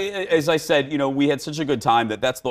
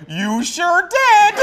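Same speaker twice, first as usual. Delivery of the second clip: dry tease; 5 dB louder, much slower than usual. Retold or imitated. Her retold reply to the boss.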